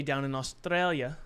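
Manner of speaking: put-on a touch of Italian-style accent; mock Australian accent that comes out Italian; lightly put-on, misplaced Italian accent; wrong Australian accent. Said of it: "I know that's not the accent for Australia".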